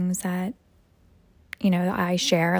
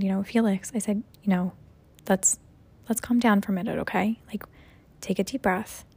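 calm soothing. Retold or imitated.

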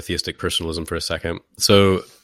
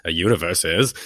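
rough attempt at Swinburne's accent; slower than usual. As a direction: badly do an English philosopher's accent. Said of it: "can't quite do the Swinburne accent".

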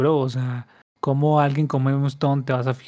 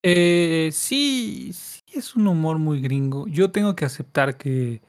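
talking while eating; mouth full. Real, not acted. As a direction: speak through a mouthful of food. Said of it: "me estoy comiendo algo".

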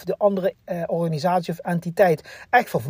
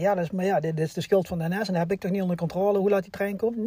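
quick, muttered excuse, softer; mock excuse; 6 dB quieter, faster than usual. A commuter blaming the train, softly muttered. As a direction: mumble the excuse fast like a whiner. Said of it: "omdat veel mensen zeggen".

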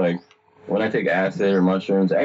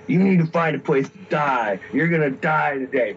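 higher-pitched imitated devil handing down orders; retold devil command, pitch raised; big devil voice; 4 semitones higher than usual. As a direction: lightly play an ominous devil. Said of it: "then this voice starts telling me".

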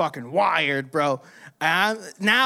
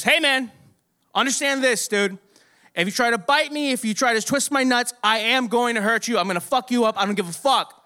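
raised-pitch imitation of a tough warning; stern warning; 5 semitones higher than usual. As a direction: lay down the law, acting the worker. Acted warning from the gold-star worker.

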